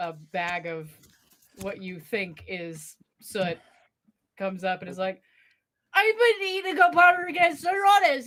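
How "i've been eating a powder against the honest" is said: put-on small boy voice, very high and loud. Narrating a scene, voicing a sooty small lad who comes up; small boy voice. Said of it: "A small lad uh, with soot in his hair".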